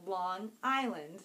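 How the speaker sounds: "Long Island" low and slow, as two words; carefully part "Long" from "Island". Shown as a demonstration. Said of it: "I think I'm doing it right".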